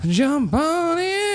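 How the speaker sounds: high pony voice. Pretend. Pony voice bit.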